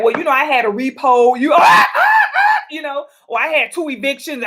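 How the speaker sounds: laughing through it, loud bursts; a mock man admitting his debts, cracking up; laughing confession. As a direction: confess the repos with a big laugh. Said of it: "If he like".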